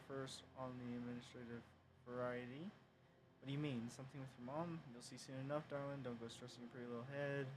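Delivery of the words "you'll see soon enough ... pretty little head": a hint of a put-on American Southern accent; amateur Southern belle accent, lightly done; bad southern accent. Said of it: "any more bad southern ac-, accent".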